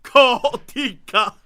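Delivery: slow, drawn-out Chicago call; Chicago accent. Retold or imitated. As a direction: say it like a Chicago local. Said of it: "they're like".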